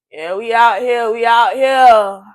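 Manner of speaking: loud, slow, drawn-out party hype; hyped party shout. Retold or imitated. Imitating the guy filming his party crew, loud and hyped. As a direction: belt it out like you're filming the party.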